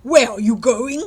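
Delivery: wolf voice. Acted. Wolf questions Red Riding Hood.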